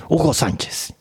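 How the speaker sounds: grito agudo que cae al final. A narrator's reading. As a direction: cry out the name high, then let it fall. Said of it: "gritó". (grito exclamado, muy agudo)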